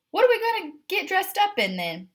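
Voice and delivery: a picky cat checking the plan; Edith the cat. A narrator's reading.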